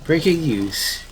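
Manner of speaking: mock urgent newsreader; breaking news read. Reads breaking news bulletin.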